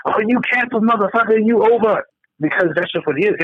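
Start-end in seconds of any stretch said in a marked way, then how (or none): 0.1-2.0 high, mocking "you're over"; mock dismissal. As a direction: write him off with scorn. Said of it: "nobody is fucking being like".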